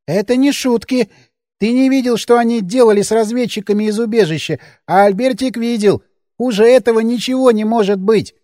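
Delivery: a hint of a fearful man-child; childlike Albertik. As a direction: speak like a scared grown child. Albertik warns gravely.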